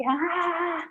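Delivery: short high mock scream, held back; a quick high "Ah!" standing in for a scream; imitated inner scream. Therapist showing the screaming energy, a soft mock scream. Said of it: "something inside screaming, like".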